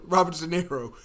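"Robert De Niro" in a bad, hammed-up Irish accent; terrible Irish accent. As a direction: say "Robert De Niro" in a deliberately awful Irish lilt. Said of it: "this accent's terrible".

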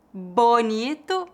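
Bonito with a clear oral "o", said slowly; slow, careful Bonito, first syllable kept oral. Shown as a demonstration. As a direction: say Bonito slowly without nasalizing the "o". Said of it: "exemplos de variações de sotaque".

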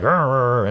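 frustrated growl. Retold or imitated. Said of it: "this moment of insanity".

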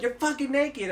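high-pitched incredulous telling-off; retold exasperation. Teller acts out scolding a naked drunk friend, exasperated. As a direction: point out the obvious, mock exasperated.

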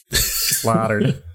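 English accent. Shown as a demonstration. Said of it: "now I don't even know what I am".

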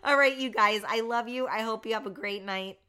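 strained and hoarse from talking. Real, not acted. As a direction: voice nearly gone, hoarse. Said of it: "I have no voice left".

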